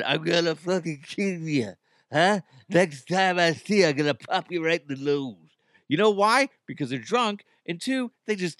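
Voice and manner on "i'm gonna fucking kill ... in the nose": mock-threatening Irish accent. Imagined Irish listener texting a threat, mock Irish accent. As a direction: threaten in a put-on Irish brogue. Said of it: "Don't have any Irish people texting".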